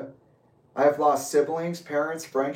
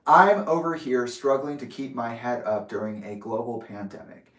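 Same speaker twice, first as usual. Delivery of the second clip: reading it again more slowly and deliberately; slowed down. Real, not acted. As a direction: take your time over each word. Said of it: "I want to slow down".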